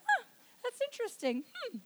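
understated, mildly curious mock reaction; mock nonchalance. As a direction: play it down as if barely bothered. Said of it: "Yeah, you don't go".

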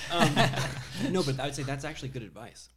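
laughing, high and loud. Real, not acted. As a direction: laugh into the words. Laughing after roofie joke.

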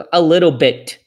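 "A little bit" with a flapped tt. Shown as a demonstration. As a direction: say "little" like liro.

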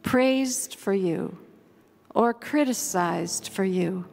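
measured covenant prayer, each phrase given room; slow, thoughtful prayer. Real, not acted. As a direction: read slowly and reverently, pausing after each phrase. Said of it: "read it slowly and thoughtfully".

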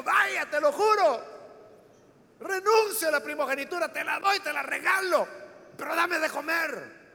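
a mock-earnest famished brother giving everything away; Esaú swearing, desperate. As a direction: drag out the promise, then half-shout for food.

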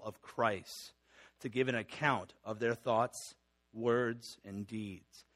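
deliberate, weighty confession reading; formal reading. Acted. Pastor reading the Westminster Confession to the church, weighty formal reading. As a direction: read the old confession with gravity.

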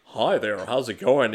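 white-guy voice. Retold or imitated. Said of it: "He sounds like".

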